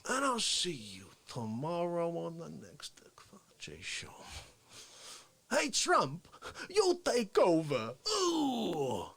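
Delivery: high, drawn-out parody voice; Dick Fauci. Acted. Signing off his show and heckling Trump, Fauci impression. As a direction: stretch the words out high and plaintive. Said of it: "And Fauci".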